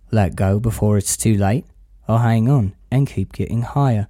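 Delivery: lightly voiced, low-key film monologue; calm stoner philosopher. Quoting Danny's monologue from the film, calm and slightly low.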